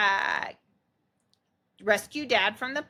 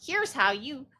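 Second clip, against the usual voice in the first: a hint of a bright, higher cheery pitch; friendly pitch; 5 semitones higher than usual. Mom voicing daughter handing out business cards, mildly cheery. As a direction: offer the card sweetly. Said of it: "business cards that you can hand to people going".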